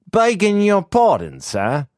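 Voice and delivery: a nervous laborer apologizing to his master; humble gravedigger. Acted.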